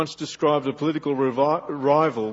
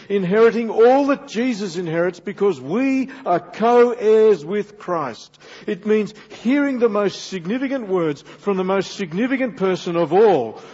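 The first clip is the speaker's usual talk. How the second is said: emphatic, raised sermon delivery; preaching; 4 semitones higher, 5 dB louder than usual. Real, not acted. Preacher telling congregation of the heavenly reward, forceful preaching. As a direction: build the promise with ringing emphasis on key words.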